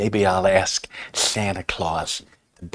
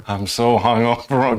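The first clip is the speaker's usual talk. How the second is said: slow, mock-groggy hungover moan; slower than usual. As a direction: play a hammed-up hangover. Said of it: "wearing the ice pack".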